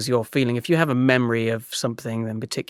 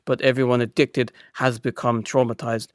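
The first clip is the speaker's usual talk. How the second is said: measured, understated imitation of a speaker; composed quote, lightly voiced; Gabor Mate. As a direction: lightly imitate an assured lecturer. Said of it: "he's saying in his voice".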